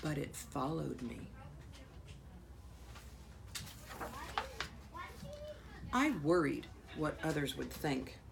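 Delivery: hushed, held-back picture-book reading; story narration. A narrator's reading. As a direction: read it to children softly, with pauses. Reads picture book aloud to children.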